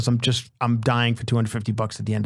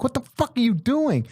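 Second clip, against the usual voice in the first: alarmed security guard; 11 semitones higher than usual. Retold or imitated. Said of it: "security comes running over".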